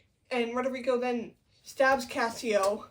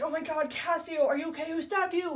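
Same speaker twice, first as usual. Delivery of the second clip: higher-pitched mock shocked concern; mock alarm; 5 semitones higher than usual. Iago fussing over wounded Cassio, mock alarm. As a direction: act out alarmed concern, lightly hammed.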